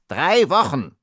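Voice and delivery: high, outraged complaint; indignant exclamation. A narrator's reading. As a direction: exclaim it in disbelieving misery. Shivering little man complains.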